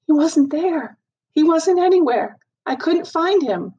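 choked-up, straining not to cry; holding back sobs. A narrator's reading. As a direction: voice rising with held-back tears. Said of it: "I saw a sob rise up in her throat".

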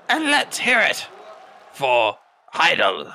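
high shout falling onto the name; arena announcer. Acted. Announcer asks the crowd to cheer Heidel, high shouted call.

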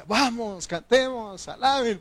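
high, urgent rallying call; rallying exhortation. Retold or imitated. Preacher showing how he urges church to praise, high rallying call. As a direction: rouse the room to sing. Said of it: "Por eso yo aquí".

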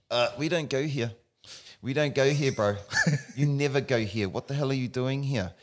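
high, loud alarmed protest with a laugh; protesting nerves. Retold or imitated. Stretch receptors protesting the muscle pull, high alarmed voice. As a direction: play nerves panicking at a stretch.

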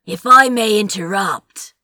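loud cut-in; talking over. A narrator's reading. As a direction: speak over him firmly. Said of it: "Sandy said over Aziraphale's stammering".

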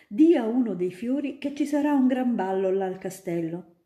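put-on a grown-up spinning tales for a child; student eagerly convincing little Ida; storytelling student. Student plots trick.

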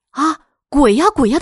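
high, loud cry of terror; terrified scream. Retold or imitated. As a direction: scream as if seeing a ghost. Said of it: "地叫了起来".

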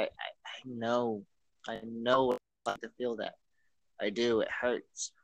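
quiet, choked-up voice fighting tears; holding back sobs. Real, not acted. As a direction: speak through held-back tears. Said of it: "I'm crying my voice out when I say this".

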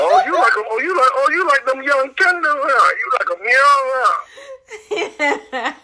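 high-pitched teasing through laughter; laughing tease. Real, not acted. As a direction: needle her playfully with a laugh.

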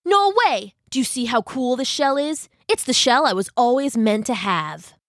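brash crab, high No way; snappy clicking crab. Acted.

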